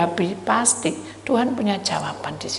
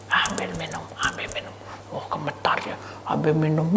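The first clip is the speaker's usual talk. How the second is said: trembling whisper; 5 semitones lower, 6 dB quieter than usual. Retold or imitated. Trembling wife urged to fetch water.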